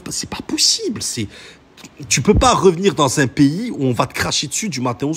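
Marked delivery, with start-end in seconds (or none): 0.0-1.3 whisper. Real, not acted. Aside in disbelief.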